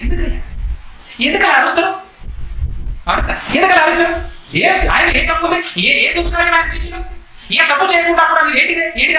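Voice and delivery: high-pitched, pleading challenge; exasperated protest. Acted. Pilate asking the crowd why they shout, exasperated protest.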